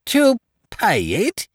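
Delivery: high, disbelieving echo; a landlord stunned at being paid; incredulous. A narrator's reading.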